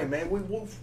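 high-pitched London slang voice; imitating a Kingsman-style geezer; British slang. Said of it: "that slang shit where it's like".

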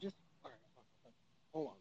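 faint, distant, off-mic; phone held away. Real, not acted. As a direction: speak from far away from the phone. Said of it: "and you're low again".

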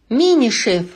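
loud call across the flat. Acted. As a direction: call out to find him. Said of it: "позвал он".

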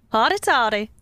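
lightly voiced Southern TikTok girl; corrected Southern imitation. Correcting a friend's TikTok impression, understated Southern imitation. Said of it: "She goes like".

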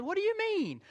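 very high, singsong mock Brazilian accent. Preacher replaying his reply to his wife, high mock Brazilian accent. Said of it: "their Brazilian accent".

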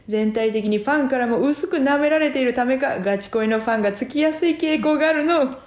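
lightly voiced creaky wise old man; a touch of an old sage voice; hermit voice. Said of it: "わしはひしもち仙人じゃ".

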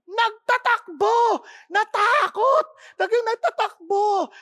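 high, loud, slow exclaiming; dramatic exclamation. Acted. Preacher to congregation, on the prophet fleeing in fear, high loud exclaiming. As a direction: paint the panic of his running.

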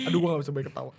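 wincing laugh, ribs aching; laughing through pain. Real, not acted. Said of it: "Gua kalau ketawa rusuk gua sakit".

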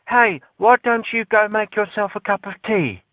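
high, prim mock British accent; mock posh British. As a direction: sneer in a Mary Poppins British accent. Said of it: "Harry Potter, Mary Poppins kind of way".

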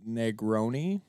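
announcer calling the race like a carny. Acted. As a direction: call it out like a fairground barker. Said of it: "You sound like a carny".

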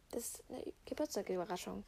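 hushed, breathy aside; secret whisper. Real, not acted. Keeping surprise secret from sister.

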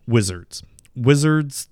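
ordinary delivery

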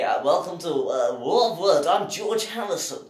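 slow, put-on Liverpool host voice; host the show in a mock Scouse accent. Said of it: "get rid of the accent".

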